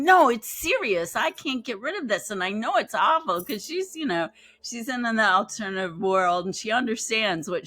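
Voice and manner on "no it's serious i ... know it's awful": mock annoyed. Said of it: "she got mad at me".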